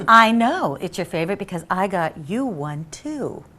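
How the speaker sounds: slow, lightly voiced smooth charmer; a hint of a slow, smooth come-on; mildly slowed smooth ladies' man. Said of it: "in a smooth voice".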